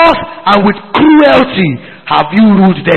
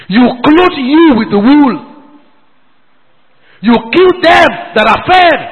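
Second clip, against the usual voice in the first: shouted rebuke. Real, not acted. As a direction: call it out like an accusation. Preacher rebuking shepherds.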